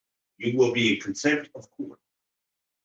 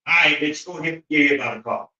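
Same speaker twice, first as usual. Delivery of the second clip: exasperated snap; 4 semitones higher than usual. Acted. Fed up with people who won't listen, an exasperated snap. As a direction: throw up your hands and snap at them. Telling hard-headed people off.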